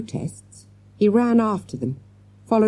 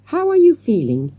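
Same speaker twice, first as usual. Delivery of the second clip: raised-pitch anxious question; concerned; 6 semitones higher, 4 dB louder than usual. A narrator's reading. Man looking at rescued girl, concerned. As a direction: ask with lifted, caring concern. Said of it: "he asked in concern".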